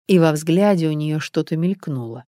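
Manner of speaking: ordinary delivery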